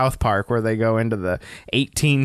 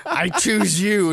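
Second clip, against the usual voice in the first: slow, higher-pitched hammed-up declaration; mock warrior woman; 6 semitones higher, slower than usual. Imagined Helga picks her future husband, mock-grand and slow. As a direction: playfully claim your mate, drawn out and high.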